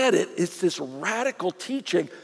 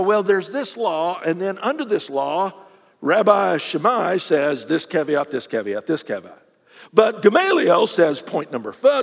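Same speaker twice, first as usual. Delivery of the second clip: lawyerly rabbi; 2 semitones lower than usual. Retold or imitated. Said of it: "they would teach like attorneys".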